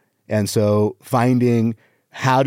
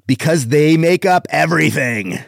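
punchline pushed up higher; emphatic joke delivery; 4 semitones higher than usual. Shown as a demonstration. Comic retries his one-liners with more delivery, emphatic. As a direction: sell the punchline with a lift. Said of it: "on the delivery".

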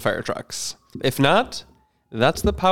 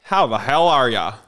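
mock dad greeting; a lightly voiced cheery dad; generic dad. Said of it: "It's just kind of like generic dad".

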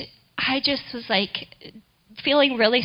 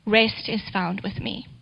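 gentle; 2 semitones lower, 5 dB quieter than usual. Retold or imitated. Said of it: "very gently".

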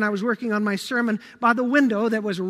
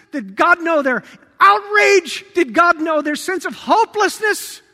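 building sermon questions; 4 dB louder than usual. Acted. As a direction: build each question until shouting.

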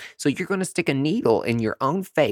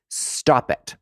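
whispered stop it. Real, not acted. Whispered scold.

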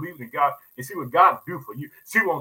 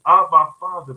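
crying out; 9 dB louder than usual. Acted. Crying out to God in prayer.

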